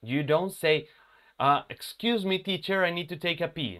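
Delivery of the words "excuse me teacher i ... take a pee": too casual. Shown as a demonstration. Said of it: "No, you don't say that".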